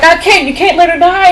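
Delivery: high-pitched imitation of panic; hammed-up desperate protest; mock freaking out. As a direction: plead frantically, as if retelling a meltdown. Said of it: "he's, like, freaking out".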